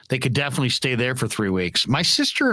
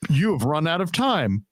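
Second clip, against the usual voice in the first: answering machine voice. Retold or imitated. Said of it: "all of a sudden it's like".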